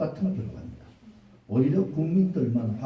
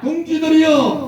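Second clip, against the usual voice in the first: slow, high roaring slogan; roaring rallying speech; 9 dB louder, slower than usual. Real, not acted. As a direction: roar each word to lead the crowd. Leader chants slogan, crowd repeats. (느리고 우렁찬 구호 외침)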